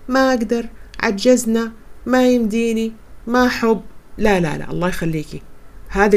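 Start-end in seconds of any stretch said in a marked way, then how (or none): 0.1-3.8 defeatist whining. Retold or imitated. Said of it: "اتركي عقلية".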